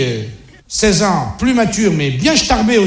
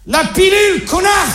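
furious shout; 10 semitones higher than usual. Acted. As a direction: scream the punchline at the kids. Father yells punchline at kids. (le père hurle sur ses ados)

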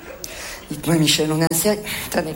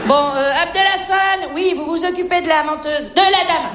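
calling a colleague; 2 semitones higher than usual. Acted. Calls colleague to take customer over.

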